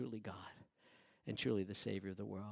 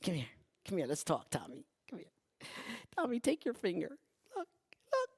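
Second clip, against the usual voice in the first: Jesus calling Thomas; 8 semitones higher than usual. Acted. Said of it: "and he goes".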